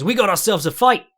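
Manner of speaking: loud, rising announcer call, imitated; Big John catchphrase. Imitating Big John calling the fight, loud and rising. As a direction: ham up a commentator hyping the fight. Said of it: "all in the intonation".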